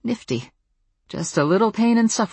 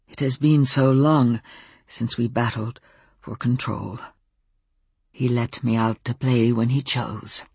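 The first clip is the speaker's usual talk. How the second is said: low, halting voice with long pauses; halting wolf in human shape; 3 semitones lower than usual. A narrator's reading. Wolf explaining himself to the narrator, halting and subdued. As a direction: place each phrase carefully, as if words are unfamiliar. Wolf character speaking in Samuel's body.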